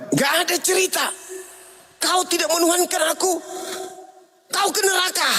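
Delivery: high, mock-stern voice sending her away; stern God. Son as God condemning his mother, high and mock-stern. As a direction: pronounce judgment in a hammed-up tone.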